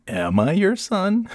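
can I really be your son; mock disbelief. Son joking about his dad, slow high mock astonishment.

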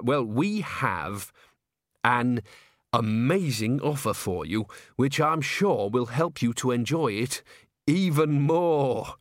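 halting, slow, hesitant voice; nervous manager. Acted. Bucket addresses Agnes, nervously halting. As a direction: stall with ums and uhs.

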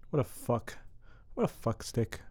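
muttered very softly under breath. Real, not acted. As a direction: mutter it quietly. Muttered insult, much softer.

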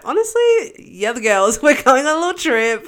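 high opening, then laughing glee; retold excitement. Passenger retells cheering on the girls' surprise ferry trip, giddy. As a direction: play up giddy delight at an accidental adventure.

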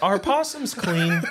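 slow, high clueless boomer. Retold or imitated. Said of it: "I Google like such a boomer".

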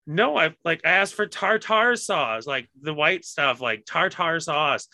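mock-patient, like explaining to a child; exasperated customer. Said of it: "And Josh is like".

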